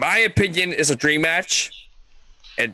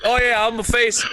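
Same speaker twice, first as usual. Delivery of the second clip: Brock Lesnar; 7 semitones higher than usual. Retold or imitated. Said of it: "Brock Lesnar killed it. He's like".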